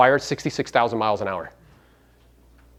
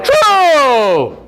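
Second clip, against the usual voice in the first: shouted, higher agreement; emphatic shout; 9 semitones higher, 7 dB louder than usual. Real, not acted. Speaker confirms the joke to the audience, shouting. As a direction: punch it out to the laughing room. Crowd laughs at his point.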